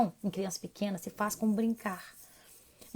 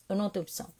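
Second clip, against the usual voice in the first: softer, dropping repeat of "Eu não tenho opção"; quiet resigned second take; resigned echo; 7 dB quieter, much faster than usual. Real, not acted. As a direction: let it fall away in resignation. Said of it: "repeats the phrase".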